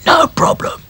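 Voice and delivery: breathy whisper back. Acted. Doll answering Dotty, whisper. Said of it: "Back to Front whispered back".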